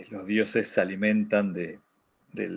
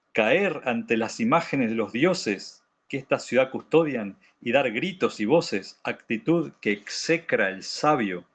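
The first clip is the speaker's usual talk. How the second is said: declamatory reading of a ruler's rebuke; dramatic text reading. Acted. Teacher reads Eteocles rebuking the women of the chorus, declaimed. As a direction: read out the tragic speech with rhetorical phrasing.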